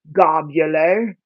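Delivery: globular, drawn out slowly in a mock British accent; a playful British lilt on globular. Reading the seed packet aloud, slipping into a British accent. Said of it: "I don't know why this became British".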